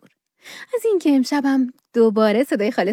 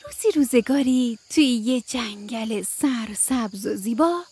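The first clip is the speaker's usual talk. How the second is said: put-on gentle bedtime story reading for kids; children's radio storyteller; storytelling narration. A narrator's reading. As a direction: read it like a bedtime tale.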